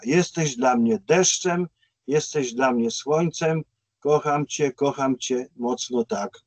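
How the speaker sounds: slow, measured verse reading; spoken lyrics at an unhurried pace; reciting song lyrics. Retold or imitated. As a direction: read the lyrics out slowly, line by line.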